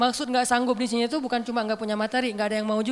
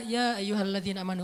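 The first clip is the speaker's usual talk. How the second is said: gentle recitation; 2 semitones lower than usual. Shown as a demonstration. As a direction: read it gently, like a tender call. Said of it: "Tapi kalau kita baca".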